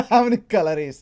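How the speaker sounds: laughing mock Indian accent.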